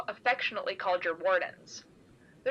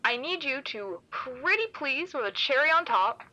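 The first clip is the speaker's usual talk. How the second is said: mock sweetness; 5 semitones higher than usual. Sarcastic pleading request.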